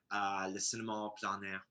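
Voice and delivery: Cinéma Plein Air said the French way; French accent. Pretend. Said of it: "Can you say that more in a French accent".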